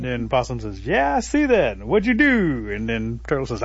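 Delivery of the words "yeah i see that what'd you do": high, loud holler down; storyteller's long-distance call; calling back. Acted. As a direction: shout back from up in a tree. Possum calls back down.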